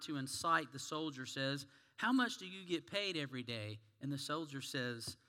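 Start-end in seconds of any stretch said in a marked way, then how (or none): 2.0-3.8 lightly friendly question. Acted. Rabbi avoiding inciting the soldier, friendly and mild. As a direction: ask amiably, careful not to provoke. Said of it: "in a friendly voice".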